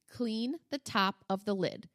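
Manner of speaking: measured parental command; slow, deliberate order. Retold or imitated. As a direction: spell out the order word by word, slowly. Mother repeating order to son.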